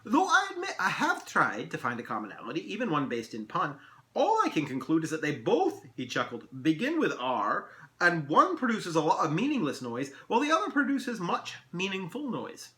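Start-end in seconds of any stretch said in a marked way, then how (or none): 0.0-5.8 pondering elf. Acted. 6.6-12.7 punning elf. Acted. Elf ponders aloud.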